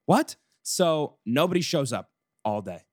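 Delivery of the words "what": sudden high, loud disbelieving what; stunned what. Retold or imitated. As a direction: blurt it out in shock, much higher and louder. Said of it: "I was like".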